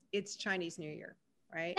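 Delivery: very gently. Retold or imitated. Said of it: "And so I just kind of very gently said".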